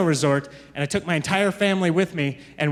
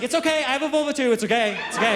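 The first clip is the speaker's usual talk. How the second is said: put-on high child voice soothing the lady; a toddler calmly reassuring a stranger; reassuring little girl; 5 semitones higher than usual. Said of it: "She's like".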